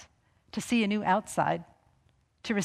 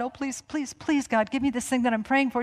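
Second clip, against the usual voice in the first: mock begging God; 3 semitones higher than usual. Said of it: "You don't have to beg God".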